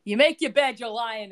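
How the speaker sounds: put-on a little bit Caroline Manzo accent; half-hearted New Jersey accent; switching accents clumsily. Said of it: "With what accent is that?".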